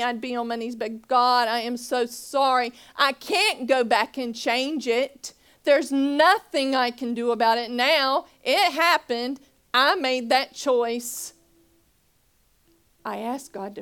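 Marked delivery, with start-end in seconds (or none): 1.1-11.3 pleading apology. Retold or imitated. Retold tearful prayer of regret.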